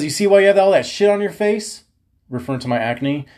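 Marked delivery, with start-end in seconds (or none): 0.0-1.8 a hint of a barking coach; coach scolding. Coach scolding the kid over his soda, mildly mock-stern. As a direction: call him out like a coach. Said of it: "he says".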